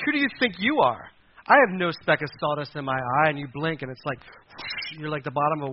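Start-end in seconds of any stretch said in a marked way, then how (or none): 0.1-3.3 mock indignant retort. Proud person snapping at someone who points out a flaw, mock indignant. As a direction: bristle as if accused. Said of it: "And you're like".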